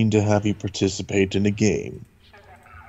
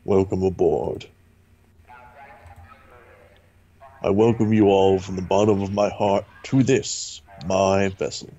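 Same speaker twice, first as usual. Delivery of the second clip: Gas Mask voice. Acted. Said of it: "who does this voice?".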